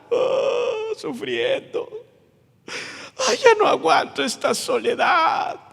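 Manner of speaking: mock whimpering complaint; hammed-up self-pitying prisoner; whiny self-pity. Prisoner whining on a livestream, mock crying. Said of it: "sería así como".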